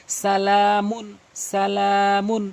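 quick first and last syllables, stretched middle in "সালামুন"; টান on লা. Shown as a demonstration. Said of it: "শুধু লামটি টান হবে". ("সালামুন" শুধু লাম টেনে, বাকি দ্রুত)

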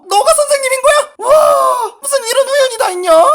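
loud, delighted surprise with laughter; surprised reunion. Acted. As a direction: shout out at the unexpected meeting. Teacher recognizes former student.

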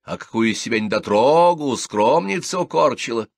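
scandalised at the prude; indignant widow bursts out about the scandal. A narrator's reading. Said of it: "возмутилась Ленка".

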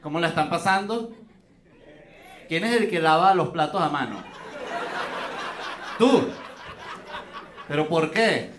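ordinary talk

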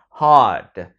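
hard said with a long open a. Shown as a demonstration. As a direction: stretch the vowel in hard. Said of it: "A, âm A dài". (kéo dài âm a trong hard)

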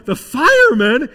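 loud, high, startled question; alarmed boss. Acted. Boss hearing of a fireman at his employee's house, alarmed. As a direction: blurt it out in disbelief. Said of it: "He's getting a little alarmed".

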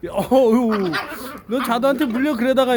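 laughing. Real, not acted. Laughing at the fighting dogs.

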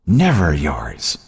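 drawn-out, slow mocking jab; mocking taunt. A narrator's reading. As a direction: taunt her, stretching the words out. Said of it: "mocking her".

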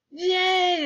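high, loud, drawn-out yay; a whole class's happy yell; shouted cheer. A narrator's reading. Classmates cheer the flat screen idea, shouted. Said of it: "everybody shouted".

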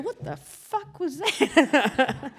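laughing mock outburst, stretched out; startled outrage. Neighbours hit by wet toilet paper, imitated startled outrage.

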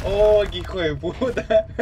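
slow, laughing in disbelief; laughing curse. Real, not acted. Player caught by the boss's trick, laughing curse. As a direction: laugh it out, half outraged.

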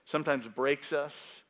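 ordinary talk, nothing marked

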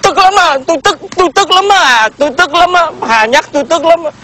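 whiny complaint. Acted. Man whining to Hà about rival.

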